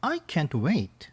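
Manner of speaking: very slow, careful and clear; slow model line. Shown as a demonstration. Teacher plays the girlfriend, slowly modelling the line. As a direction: spell it out slowly for the class. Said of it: "선생님 먼저 가겠습니다".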